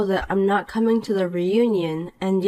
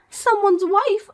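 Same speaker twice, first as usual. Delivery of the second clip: slow, higher sneering repeat; mocking echo; 12 semitones higher, slower than usual. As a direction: throw her words back at her with scorn. Poppy echoes mockingly.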